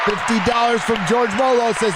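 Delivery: shouted superchat intro, high and loud; loud announcing. Real, not acted. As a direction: call out the donation like a host. Reading superchat aloud, shouted.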